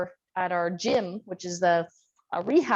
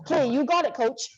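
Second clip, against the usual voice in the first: higher-pitched mock compliance; imitating obedient boys; 4 semitones higher than usual. Boys answer the strict coach, lightly imitated compliance. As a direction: lightly play boys promptly agreeing with coach. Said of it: "And they go".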